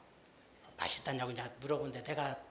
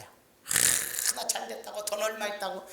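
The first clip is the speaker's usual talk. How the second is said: mock bragging, pitched up; boastful; 4 semitones higher, slower than usual. Preacher mimics someone flaunting money, boastful. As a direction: show off with a breathy "아" first. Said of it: "자랑하지 않아요".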